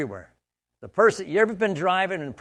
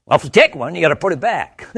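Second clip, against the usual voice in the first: teasing; 3 semitones higher, 8 dB louder than usual. Retold or imitated. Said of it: "I went".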